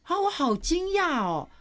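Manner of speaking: high, astonished exclamation; reliving the shock with a high voice; retold surprise. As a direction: gasp it out as if amazed again.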